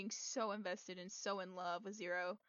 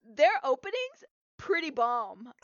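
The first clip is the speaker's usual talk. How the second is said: coughing fit; 3 semitones higher, 10 dB louder, slower than usual. Real, not acted. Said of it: "I'm coughing".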